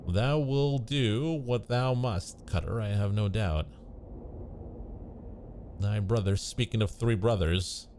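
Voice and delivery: put-on slow, old-fashioned courtly speech; lightly acted olde English dialogue; archaic storybook voices. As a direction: play the solemn forest characters. Voices medieval tree dream characters.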